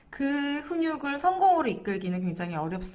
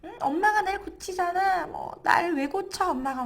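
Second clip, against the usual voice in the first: a child's mock annoyed protest, pitched up; imitating irritated child; 8 semitones higher than usual. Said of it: "얘가 막 짜증을 내면서".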